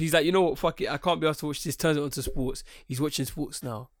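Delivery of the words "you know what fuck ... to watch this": raised-voice giving up; fed up. Acted. Viewer abandoning his show for sports, fed up. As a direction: throw it away in mild exasperation.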